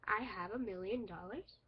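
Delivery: "I have a million dollars" rising at the end like a question; questioning rise. Shown as a demonstration. Teacher demonstrating a question mark, rising question. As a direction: ask "dollars" with an upward lift. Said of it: "the second sentence has one".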